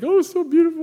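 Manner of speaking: high, loud, gushing mock lady voice. Pastor imitating a woman moved at a foot washing, high gushing voice. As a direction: swoon over it like a teary churchgoer. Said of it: "And the lady's like".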